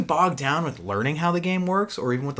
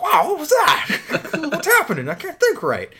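dazed Predator voice; 12 semitones higher, 4 dB louder than usual. Pretend. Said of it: "you're just like".

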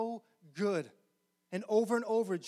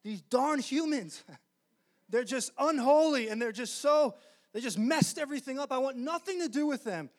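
higher and louder, a hammed-up fed-up grumble with a laugh; grumpy disgusted Father; 5 semitones higher, 4 dB louder than usual. Preacher mocking his old view of God, hammed-up disgust. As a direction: play a cranky god fed up with humans. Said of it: "the Father was always in heaven like".

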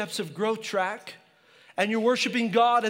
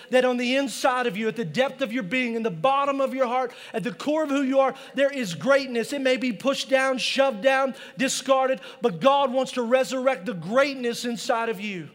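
preaching; 2 semitones higher than usual. Acted. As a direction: preach it out to the congregation. Opening preaching crescendo.

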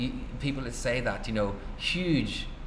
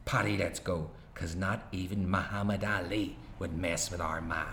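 an author reading his own novel aloud; story narration. A narrator's reading. Author reading his novel to an audience, narration voice. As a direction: tell it steady and wry, pausing between beats.

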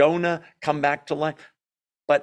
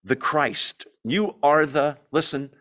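definite; slower than usual. Retold or imitated. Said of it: "look at how definite he is".

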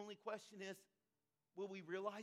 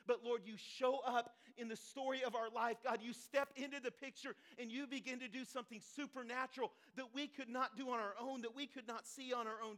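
impassioned preaching; 3 semitones higher, 6 dB louder than usual. Acted. Preaches, addressing God.

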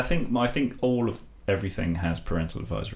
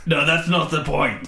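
slow, higher royal put-on; Prince Philip; 7 semitones higher than usual. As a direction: correct him slowly as a royal. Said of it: "I'm Prince Philip".

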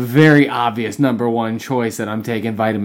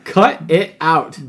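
mock scolding; 3 semitones higher, 3 dB louder, slower than usual. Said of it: "You tell him".

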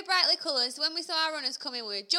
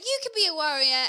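raised-voice encouragement; loud re-enacted cheering; 3 semitones higher, 5 dB louder than usual. Cheerleader re-enacts her answer to a runner, loud call. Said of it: "this is really loud".

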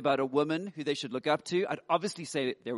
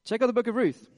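eager advice to daughters; 7 semitones higher, 5 dB louder, faster than usual. Pretend. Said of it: "I'd say".

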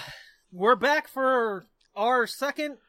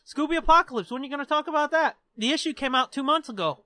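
nagging fans; 3 semitones higher, much faster than usual. Acted. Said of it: "People are still like".

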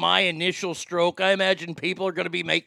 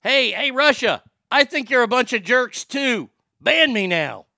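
mock taunt; 5 semitones higher, 4 dB louder than usual. Host taunts Russia directly.

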